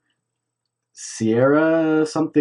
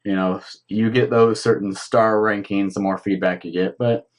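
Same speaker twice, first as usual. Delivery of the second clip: sleepy, talking through a yawn; tired voice stretched by a yawn; 2 semitones lower than usual. Real, not acted. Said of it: "you're awfully yawny".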